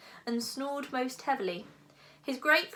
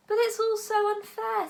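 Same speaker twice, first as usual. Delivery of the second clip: put-on high, louder boyish protest; 11 semitones higher, 8 dB louder than usual. A narrator's reading. Hiccup protesting to the dragon it is unfair.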